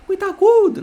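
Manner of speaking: "agudo" num falsete bem alto e forte. Shown as a demonstration. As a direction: suba a voz lá no alto. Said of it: "A frequência". (voz aguda e exagerada)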